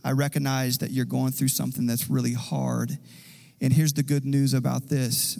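soft, gentle comforting. Pretend. Pastor voicing Jesus comforting those who mourn, soft nurturing tone. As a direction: ease into it like a mother soothing a hurting child. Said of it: "it's nurturing in a way of saying".

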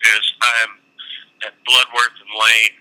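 phone call over speaker; on speakerphone. Real, not acted. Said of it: "I've got you on speaker".

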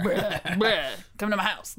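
mock bleating noise, then an invitation; mildly hammed-up impression of a friend; put-on Alice voice. Friend teasingly imitating Alice inviting her over, mildly hammed-up impression. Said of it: "That's clearly what she sounds like".

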